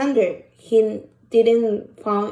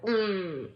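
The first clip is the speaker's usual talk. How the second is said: angry grunt; 3 semitones lower, 10 dB quieter than usual. Retold or imitated. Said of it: "his face is like".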